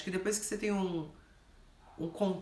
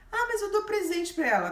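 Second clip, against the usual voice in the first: much higher, louder whiny protest; high mock voice of the client; 13 semitones higher, 5 dB louder than usual. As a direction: whine the excuse, pitched way up.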